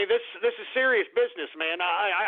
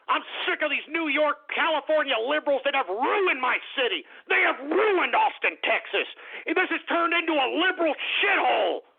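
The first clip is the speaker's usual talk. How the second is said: raised-pitch, exasperated tirade; sick-and-tired ranting; fed-up rant; 4 semitones higher than usual. Real, not acted. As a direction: build to an outraged high-pitched finish. Ranting against newcomers ruining Austin.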